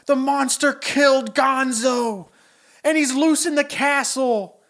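high, loud, alarmed Kermit wail. Retold or imitated. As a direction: cry out like a horrified Kermit. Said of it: "He goes".

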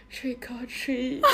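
slow, soft vocal fry, shrinking away. Retold or imitated. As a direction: mumble it in creaky vocal fry, embarrassed. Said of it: "你跟他用气泡音说".

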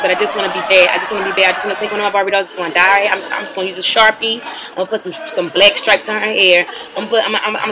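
laughing through the words; giggling. Real, not acted. Plotting to ruin a Barbie, giggling. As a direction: giggle as you plot mischief.

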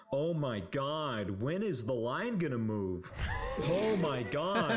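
slow, drawn-out mock exasperation; loudly exasperated complaint. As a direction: drag it out, impatient for all to hear. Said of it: "he's saying this out loud".

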